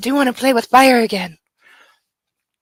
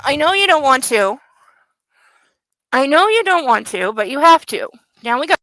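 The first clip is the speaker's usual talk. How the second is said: talking to the puppy; 3 semitones higher than usual. Real, not acted. Owner gently tells her puppy to jump down, in sweet pet talk.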